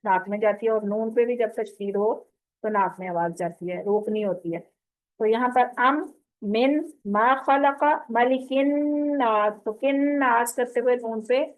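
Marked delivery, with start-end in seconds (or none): 5.2-9.6 मिन मा with a nasal hum; nasal recitation; ghunna. Shown as a demonstration. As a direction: let it hum in the nose. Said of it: "नाक में जाएगी".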